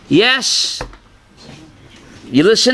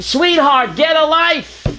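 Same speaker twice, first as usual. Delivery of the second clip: angry retort; 6 semitones higher than usual. Retold or imitated. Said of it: "he reacted so angrily".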